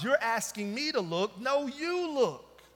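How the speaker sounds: emphatic rebuttal in God's role; God's retort. Retold or imitated. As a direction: turn the demand back firmly, stretching the last phrase. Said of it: "And God responds".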